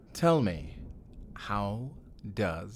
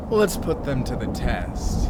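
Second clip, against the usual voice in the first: louder, gloating menace; 7 dB louder than usual. Acted. Villain gloating before testing the treasure, menacing. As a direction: savour the threat.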